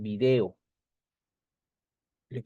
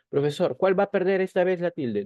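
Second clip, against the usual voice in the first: higher-pitched puzzled student question; student asking; 7 semitones higher than usual. Pretend. Teacher playing a pupil asking the professor, puzzled and higher. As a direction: ask it like a confused pupil.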